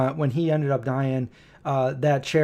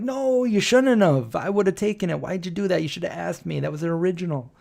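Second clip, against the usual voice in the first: retold dismayed protest; 3 semitones higher than usual. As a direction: act out scolding dad in dismay. Acted protest to dad over mask.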